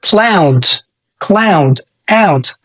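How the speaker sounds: "cloud" with an ow glide; model pronunciation. Shown as a demonstration. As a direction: repeat "cloud" clearly. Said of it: "أو كلمة". (نطق cloud)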